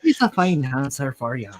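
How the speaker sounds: lightly put-on Irish accent. Riffing on a friend's answer, mock Irish accent. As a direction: try a light Irish brogue. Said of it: "can you do an Irish accent?".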